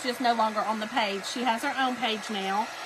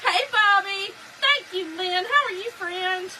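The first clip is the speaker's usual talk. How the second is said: higher-pitched, delighted hello; gushing welcome; excited greeting; 6 semitones higher than usual. Real, not acted. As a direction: call out happily to friends just arriving. Greets viewers who join the stream.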